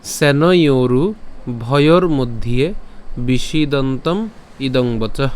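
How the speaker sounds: slow, measured Sanskrit shloka recitation; verse recitation. Shown as a demonstration. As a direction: recite slowly, each phrase drawn out. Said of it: "আজকের শ্লোকটি হলো".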